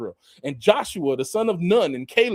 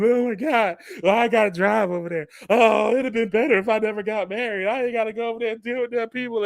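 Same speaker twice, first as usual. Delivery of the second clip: hammed-up sobbing complaint, faster at the end; mock whiny crying; 3 semitones higher than usual. A spouse mock-whining about a simple errand. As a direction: whine it like a sulking spouse. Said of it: "they just start crying and moping".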